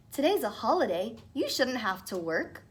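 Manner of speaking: sweetly. Acted. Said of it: "smiled very sweetly".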